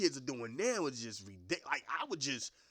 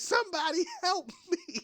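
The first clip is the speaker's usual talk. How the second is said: high, loud laughing plea; helpless teacher cries out, half laughing; teacher pleading for help; 5 dB louder than usual. Retold or imitated. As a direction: beg the class for help through a laugh. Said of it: "looking around at her classmates".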